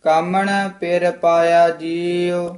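continuous chant with held ਜੀਉ; scripture recitation. Shown as a demonstration. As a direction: run ਕਾਮਣ straight into the line. Line recited, then broken up. (ਬਿਨਾਂ ਰੁਕੇ ਪਾਠ)

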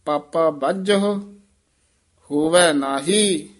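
a clear pause after ਬੱਝਹੁ before ਹੋਵੈ ਨਾਹੀ; pause in recitation. Shown as a demonstration. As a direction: break the line after ਬੱਝਹੁ. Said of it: "ਇੱਥੇ ਵਿਸਰਾਮ".

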